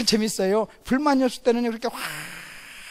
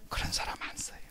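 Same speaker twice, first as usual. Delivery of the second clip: soft unvoiced whisper; 13 dB quieter than usual. Preacher whispering God's verdict to the congregation. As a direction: lean in and whisper it.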